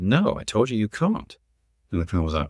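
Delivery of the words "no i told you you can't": imitating a kid's scornful refusal, slightly higher; as if he's stupid. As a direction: put him in his place like a kid. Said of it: "looked at him as if he was stupid".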